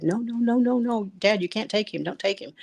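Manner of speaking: high, pleading cry of no; retold frantic plea to a father in a dream; desperate pleading. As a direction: beg him not to take your son.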